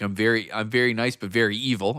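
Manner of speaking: a hint of a hammed-up evil wrestler; Danhausen voice. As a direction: croon it like a wrestler who is nice but evil. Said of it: "he goes into this crazy character".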